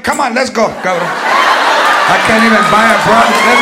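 mock impatient abuela hustling the kid along; a hint of a harried grandmother; hurried grandmother. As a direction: grandmother dragging the kid out of the store. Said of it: "my grandmother never got down".

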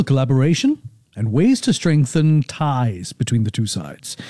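crisp, even newsreader delivery; radio news read. Acted. Radio host reading the headlines to listeners, newsreader style. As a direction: read the bulletin like a radio newscaster.

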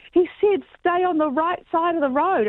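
squeaky voice for a friend who thinks she did it right; defensive friend. Retold or imitated. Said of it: "And she was like".

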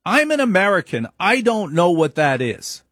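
high-pitched imitation of an old grandmother; grandmother's denial. Grandmother voiced insisting.

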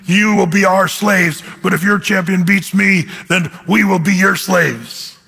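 slow, booming taunt of a towering champion; Goliath's challenge. Acted. Goliath challenging David in the valley, slow and imposing. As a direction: issue the challenge slowly, word by measured word. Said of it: "When Goliath was towering over David".

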